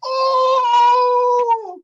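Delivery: very high, loud squeal of shock; tiny shocked squeak from the corner. Acted. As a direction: squeak it out in disbelief. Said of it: "Sheer Blast in the corner goes".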